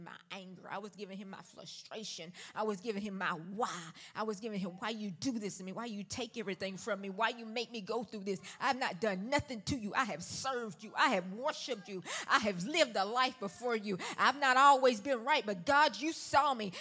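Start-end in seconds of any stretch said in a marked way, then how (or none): 4.8-16.7 rising from urgent to a full cry at God; a raw plea that swells to a shout; pleading prayer. Retold or imitated. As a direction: pour out the why to God, louder and louder. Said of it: "This is how I talked to him".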